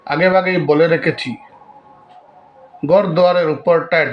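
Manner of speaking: measured recital with long pauses between lines; poem recitation. Acted. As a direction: recite verse line by line, deliberately. (ধীরে, থেমে থেমে কবিতা আবৃত্তি)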